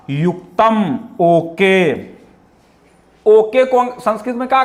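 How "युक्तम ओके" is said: lightly voiced villager saying okay; a hint of a villager agreeing. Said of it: "वह ग्रामीण बोला". (हल्का ग्रामीण स्वर)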